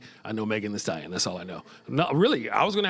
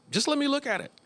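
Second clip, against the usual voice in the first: mock old man; 10 semitones higher than usual. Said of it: "it'll probably be like".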